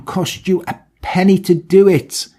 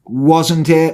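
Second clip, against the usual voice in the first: mock offended, rising. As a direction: repeat it more indignant. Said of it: "I'm like".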